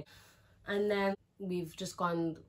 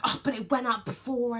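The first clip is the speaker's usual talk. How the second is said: higher, louder mock-whiny friend; imitating her friend; 6 semitones higher, 8 dB louder than usual. Friend complaining that the zip went up before, mock-whiny. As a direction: play the annoyed friend, pitched up. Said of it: "She's like".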